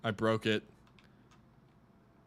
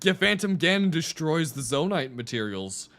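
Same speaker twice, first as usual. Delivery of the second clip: much higher and louder, it just clicked; excited realization; 7 semitones higher, 8 dB louder than usual. Real, not acted. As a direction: burst out with the sudden idea. Sudden realization about Phantom Ganon.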